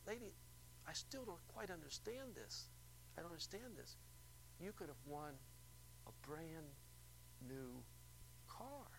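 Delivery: announcer quietly stunned at the caller's choice; disbelieving announcer. Retold or imitated. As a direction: spell out what she passed up.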